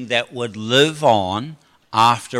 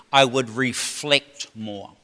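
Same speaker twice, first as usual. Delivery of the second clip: slow emphasis; 3 semitones lower, 4 dB quieter, slower than usual. Shown as a demonstration. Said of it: "key line slowed".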